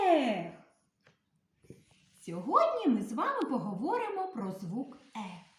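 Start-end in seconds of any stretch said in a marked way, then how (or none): 0.1-0.5 demonstrated sad sigh. Shown as a demonstration. Teacher shows children the raccoons' sigh, sighing. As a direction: show how the raccoons sigh. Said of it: "Як вздихали єноти?".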